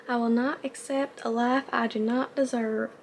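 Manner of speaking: a bad, hammed-up Southern accent; fake Southern accent. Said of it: "the worst fake Southern accent".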